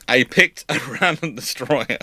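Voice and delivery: amused disbelief at his own choice; laughing. Real, not acted. Host laughing at his pick of destroyer. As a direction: laugh breaking into random. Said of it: "again, I picked a random destroyer".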